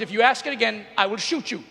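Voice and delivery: mock-menacing mutter of a fed-up teen; teen daughter's threat. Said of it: "she goes".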